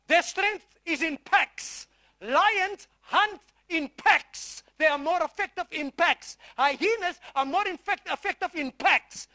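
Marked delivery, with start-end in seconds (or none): 0.1-4.6 slow emphasis. Real, not acted.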